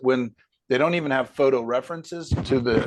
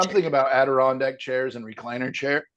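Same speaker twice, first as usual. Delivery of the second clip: speaking through hiccups; words broken by hiccups. Real, not acted. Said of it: "got the hiccups".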